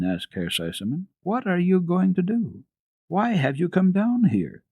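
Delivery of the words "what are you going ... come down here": lightly voiced master of the house. A narrator's reading. Sesemann questioning the child in the hall, mildly stern. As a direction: ask as a startled gentleman.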